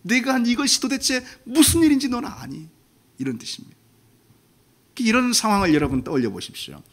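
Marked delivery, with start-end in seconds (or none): 0.0-2.7 higher, aching question; a hurt parent pleading to be understood; pained question. Acted. God pleading with sinful Adam, pained. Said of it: "하나님 마음 아파하셔가지고".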